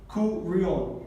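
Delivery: curión sounded out as cu-rión, end stressed; split into syllables. Shown as a demonstration. Teacher showing where the word divides, split into syllables. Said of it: "se labifican".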